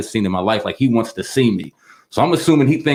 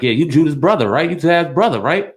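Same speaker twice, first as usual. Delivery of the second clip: higher, eager club crowd asking a question; excited clubgoers; 7 semitones higher than usual. Retold or imitated. Club crowd mistaking him for a boxer's brother, excited and higher. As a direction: play the starstruck strangers buying drinks. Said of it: "And they're like".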